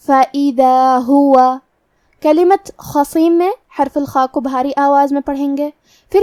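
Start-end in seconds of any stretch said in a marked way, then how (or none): 0.1-1.6 فَإِذَا هُوَ with damma and fatha both clear; clear vowels. Shown as a demonstration. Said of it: "دونوں حرکات کو ظاہر کریں گے". (هُوَ کی حرکات واضح)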